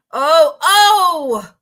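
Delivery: loud, sudden startled oh; surprised. Real, not acted. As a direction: jump at what you see.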